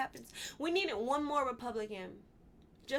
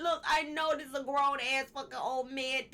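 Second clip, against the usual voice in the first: laughing; 4 dB louder than usual. Real, not acted. Laughing at Eagle Scout.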